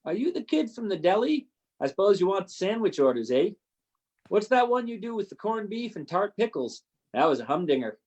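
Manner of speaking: put-on gruff Canadian colonel, a light Canadian accent; jovial Canadian accent, lightly done. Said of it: "How was my Canadian accent?".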